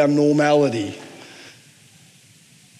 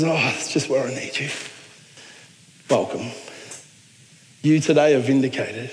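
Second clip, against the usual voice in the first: soft, lower voice of God; quiet, measured acceptance; tender reassurance; 4 semitones lower, 5 dB quieter than usual. Acted. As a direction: welcome them gently, low and soft. Voices God welcoming the penitent.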